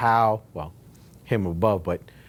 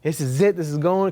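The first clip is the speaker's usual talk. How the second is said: happy excitement; 4 semitones higher than usual. Retold or imitated. Telling his wife about the huge payday, excited. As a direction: retell the joy of a big payday, lifting up. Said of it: "I was happy".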